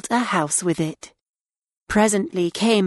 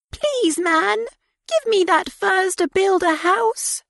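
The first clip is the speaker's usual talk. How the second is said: high pleading piglet; little pig voice; 12 semitones higher than usual. A narrator's reading. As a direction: ask sweetly in a high voice. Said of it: "and said".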